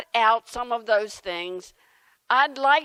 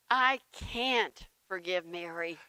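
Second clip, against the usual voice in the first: stubborn; 6 semitones lower, 10 dB quieter than usual. Acted. Man refusing forgiveness.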